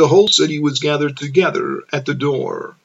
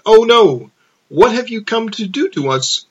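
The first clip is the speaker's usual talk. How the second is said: a high, loud startled outcry; the possessed man shrieks in alarm; crying out in alarm; 7 semitones higher, 4 dB louder than usual. A narrator's reading. Possessed man cries out at Jesus in alarm. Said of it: "who cried out, exclaiming".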